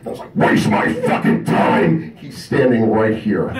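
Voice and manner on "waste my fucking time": retold outburst. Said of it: "I said it really loud".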